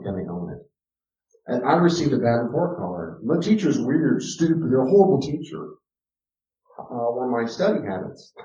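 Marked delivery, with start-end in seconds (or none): 3.2-5.7 put-on complaining child. Voicing complaining child example.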